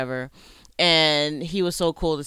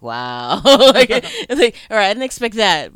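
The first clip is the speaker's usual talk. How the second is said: impressed wow; 7 semitones higher, 13 dB louder, slower than usual. Retold or imitated. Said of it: "and he was like".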